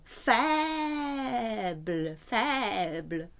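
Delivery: "Faible" said slowly, FEB-l; French pronunciation. Shown as a demonstration. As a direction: model "faible" clearly. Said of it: "Weak is faible".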